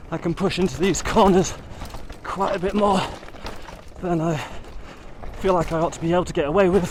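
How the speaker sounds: panting while riding; out of breath, working hard; heavy breathing. Real, not acted. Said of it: "sorry for the heavy breathing".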